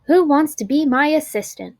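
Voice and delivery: teacher's lifted question; teacher asking. A narrator's reading. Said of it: "Missus McBee asked".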